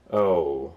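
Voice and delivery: "Oh" drawn out and sinking in pitch; going-down tone. Shown as a demonstration. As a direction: let "Oh" slide down, cooling off. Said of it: "it's kinda like a going down sound".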